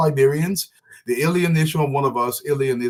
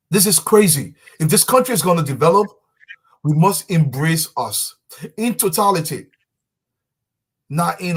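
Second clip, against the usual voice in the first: passionate raised voice; 4 semitones higher, 5 dB louder than usual. Real, not acted. Passionate political appeal, voice rising.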